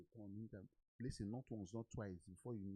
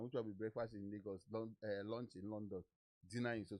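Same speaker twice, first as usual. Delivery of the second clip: slogan said low and dismissive, a mocking breakfast in Lagos; scoffing repeat; 3 semitones lower than usual. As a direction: brush the slogan off as nonsense. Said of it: "I said".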